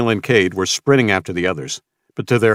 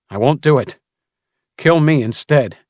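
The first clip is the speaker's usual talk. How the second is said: loud, higher defiant cry; 7 semitones higher, 5 dB louder than usual. Acted. Samuel offering himself to Mason, defiant cry. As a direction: stand up to him. Boy defying the gunman.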